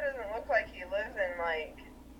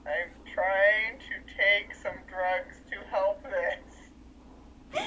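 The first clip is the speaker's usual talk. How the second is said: slow, pained imitation; acted-out suffering, slowly; mock pained; 4 semitones lower, much slower than usual. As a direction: drag it out as if hurting. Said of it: "he was in such pain".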